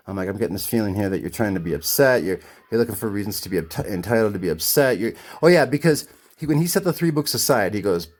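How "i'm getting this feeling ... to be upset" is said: low-pitched, measured reasoning; retold calm. Customer telling owner he's trying to be upset, calmly. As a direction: stay composed and keep the pitch down. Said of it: "real calmly".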